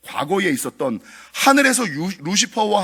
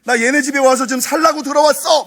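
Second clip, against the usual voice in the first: high, loud mock ghost voice; retold possessed grandma declaring she moved in; ghost's boast; 8 semitones higher, 7 dB louder than usual. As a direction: play the spirit smugly claiming the house. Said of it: "막 이러더라고요".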